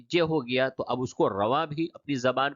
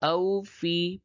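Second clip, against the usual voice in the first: higher, measured reading without spelling; joined-up recitation; 5 semitones higher, slower than usual. Shown as a demonstration. Teacher reading rawan for learners, higher joined recitation. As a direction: recite the whole word as one. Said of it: "اب اس کو رواں پڑھیں".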